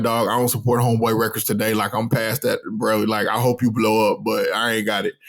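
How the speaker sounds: low, quick, monotone refusal; dismissive brush-off. Retold or imitated. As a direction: wave off a street seller in a low voice. Acting out brushing off a seller.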